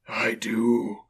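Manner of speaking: breathy, whispered spectral voice; hushed, eerie ghost; ghostly reply. A narrator's reading. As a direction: whisper it as a haunting spirit. The ghost replies.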